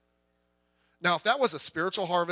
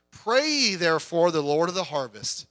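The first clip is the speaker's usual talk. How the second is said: scripture reading; slower than usual. Acted. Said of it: "The last verse there".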